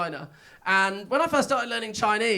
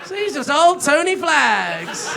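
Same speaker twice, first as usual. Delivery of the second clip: laughing; 5 semitones higher, 5 dB louder than usual. Real, not acted. Punchline on the name.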